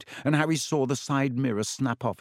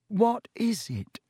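high, slow, urgent question; 10 semitones higher, slower than usual. A narrator's reading. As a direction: press him for the answer. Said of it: "said Harry urgently".

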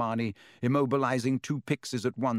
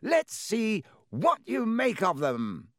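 Lockhart voice; 10 semitones higher, slower than usual. A narrator's reading. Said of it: "Lockhart said loudly".

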